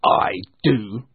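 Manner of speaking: grumpy, emphatic retort; curt Scrooge. Acted. Scrooge answering his nephew, curt. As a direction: answer firmly and sourly. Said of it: "said Scrooge".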